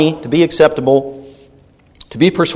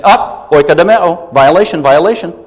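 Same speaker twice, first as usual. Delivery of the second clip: loud, playful imitation of catching someone out; mock call-out; 3 semitones higher, 4 dB louder than usual. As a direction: call the foul on a roommate, mock-officious. Roommates calling out a slip.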